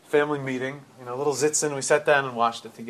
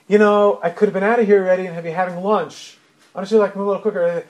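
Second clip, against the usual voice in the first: impatient nag; 2 semitones higher, 5 dB louder, faster than usual. Retold or imitated. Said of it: "And she's like".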